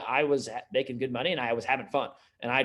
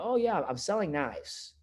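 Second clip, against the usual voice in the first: high, drawn-out mock reply; mock unenthusiastic answer; 5 semitones higher, slower than usual. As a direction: drag it out in a put-on higher voice. Imitates embarrassed rep answering a friend.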